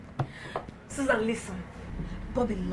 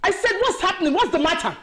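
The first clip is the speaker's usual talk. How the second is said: stern demand; 3 semitones higher, 4 dB louder than usual. Acted. Mother demands an answer.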